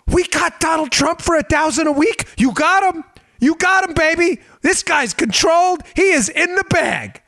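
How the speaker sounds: high-pitched gloating disbelief; hammed-up celebration among plotters; mock-thrilled conspirator. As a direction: crow excitedly, sending up the plotters. Acts the thrilled Russian co-conspirators.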